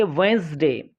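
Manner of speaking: "वेंसडे" said wens-day with no d sound; teacher models "वेंसडे" without the d; silent d. Shown as a demonstration. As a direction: drop the d in "वेंसडे". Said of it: "क्योंकि इसमें डी silent है".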